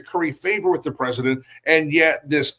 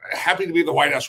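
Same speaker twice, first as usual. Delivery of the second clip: mildly upbeat, lifted contrast; happy; faster than usual. Shown as a demonstration. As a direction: say it with a touch of cheer. Contrasts happy and sad visitors.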